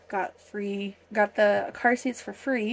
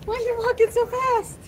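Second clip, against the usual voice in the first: laughing; 12 semitones higher than usual. Real, not acted. Teasing toddler.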